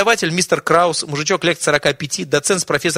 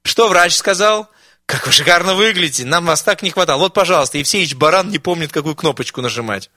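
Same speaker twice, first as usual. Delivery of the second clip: fawning; 4 semitones higher, 4 dB louder than usual. Acted. Students fawn over the granny.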